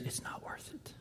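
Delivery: breathy whisper, barely audible; enemy whisper. Acted. The enemy whispering lies to weary souls, a true whisper. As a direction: whisper the lie like a tempter at your ear. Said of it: "the enemy is whispering in our ears".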